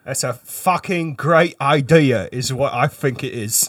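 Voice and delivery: slow, mock British accent; lightly put-on British accent. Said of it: "affectation that I am putting on right now".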